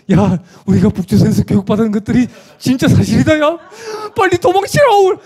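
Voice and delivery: high panicked cry broken by laughter; laughing panic. Retold or imitated. Defector warns the others to run, high and laughing. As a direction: ham up their terror while laughing.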